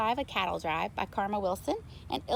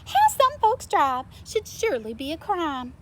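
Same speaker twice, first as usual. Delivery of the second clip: higher, louder indignant cow; Mabel crying out; 7 semitones higher, 6 dB louder than usual. A narrator's reading. Mabel the cow crying out indignantly at a car. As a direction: scold the bad drivers. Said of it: "Mabel cried".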